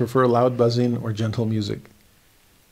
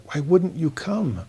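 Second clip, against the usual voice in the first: sorrowful plea; 4 semitones higher than usual. Acted. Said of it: "just the sorrow on his part".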